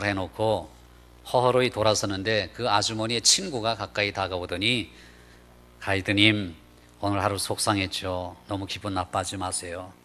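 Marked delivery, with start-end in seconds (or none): 5.8-9.9 low, soft retold comfort; lightly acted sympathy, voice dropped; gentle consoling. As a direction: imitate a friend quietly soothing someone. Friend voiced consoling the guide.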